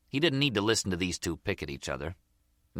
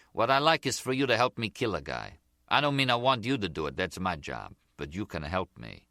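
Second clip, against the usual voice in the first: the Zip, businesslike. Acted. Voices the Zip proposing a killing.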